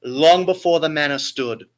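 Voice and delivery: grand theatrical storytelling; Shakespearean voice. Acted. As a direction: read it like an old stage tragedy. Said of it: "I have to put my best Shakespearean voice".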